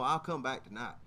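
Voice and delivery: low, offhand statement; matter-of-fact answer. Retold or imitated. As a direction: settle it casually, pitch dropping. Mechanic states his return matter-of-factly.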